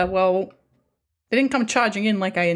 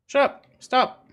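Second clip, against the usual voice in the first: annoyed shout; 4 semitones higher, slower than usual. Real, not acted. Yelling at game characters.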